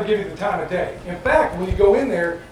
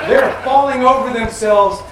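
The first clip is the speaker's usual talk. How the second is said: laughing; 3 semitones higher, 6 dB louder, slower than usual. Real, not acted. Laughing about free coffee.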